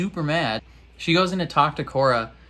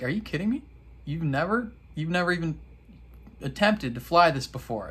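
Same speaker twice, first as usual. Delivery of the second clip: voicing Sousa; 4 semitones higher, faster than usual. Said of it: "And he's like".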